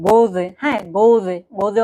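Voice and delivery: "গোজে" opening on a gh-like German R; German throaty R. Shown as a demonstration. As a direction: start "গোজে" in the throat, between gh and R. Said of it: "ঘ আর ডাইচিনি র mix করে বলে".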